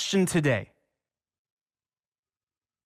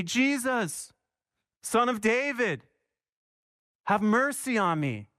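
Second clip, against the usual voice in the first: imitating a blind man's cry, slightly raised; mild retold shout; 4 semitones higher than usual. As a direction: call out to Jesus, pitched up but restrained. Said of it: "he began to shout".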